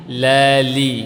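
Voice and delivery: lali with a soft, light l. Shown as a demonstration. Teacher modelling soft lali for students. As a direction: say lali gently, tongue side soft. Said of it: "lebih lembut".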